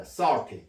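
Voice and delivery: SALTY with a vowel between O and A, like sar-ti; near-native vowel. Shown as a demonstration. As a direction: model "salty" with an open rounded ah. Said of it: "거의 원어민에 가까운 발음이 됩니다".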